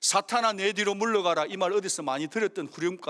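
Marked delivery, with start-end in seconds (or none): 0.0-1.5 loud commanding rebuke; preacher voicing Jesus's loud command to Satan; stern rebuke. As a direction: order Satan back, full voice. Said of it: "호통을 치는 거예요".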